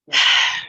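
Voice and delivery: loud voiceless sigh; deep breath out. Shown as a demonstration. Leader lets go a breath before the group, audible sigh. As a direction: let a breath whoosh out.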